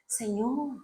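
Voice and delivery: súplica llorosa imitada. Retold or imitated. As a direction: plead gently with God, word by word. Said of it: "empezó a llorar y a decir". (súplica suave, imitando un llanto contenido)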